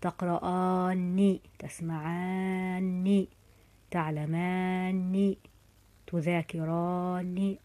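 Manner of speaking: each verb drawn out very slowly, word by word; a teacher stretching each verb for dictation; slow teaching demo. Shown as a demonstration. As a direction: spell out every form slowly so students hear the vowels. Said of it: "بعد التوكيد الفتح باق".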